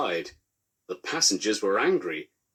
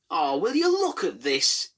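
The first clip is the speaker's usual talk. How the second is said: higher, put-upon moan; moaning signalman; 8 semitones higher than usual. A narrator's reading. Sleepy signalman to the crash crews, high put-upon moan. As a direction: whine it like a woken grump. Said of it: "he moaned".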